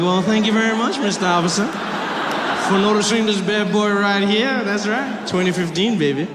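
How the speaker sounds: preening, mock-flattered swagger; flattered thanks. Driver thanks officer for noticing him, playfully flattered. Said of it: "I was a little flattered".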